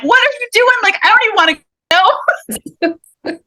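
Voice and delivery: high, mock-whiny protest; reluctant kid. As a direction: play your younger self refusing. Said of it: "I'm like".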